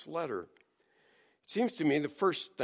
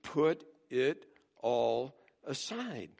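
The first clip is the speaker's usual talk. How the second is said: simple calm; 3 dB quieter, slower than usual. Pretend. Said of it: "He just says simply".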